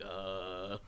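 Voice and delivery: soft mock gagging grunt; imitating a retch. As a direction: fake the sound of nearly vomiting. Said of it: "All I hear is him going".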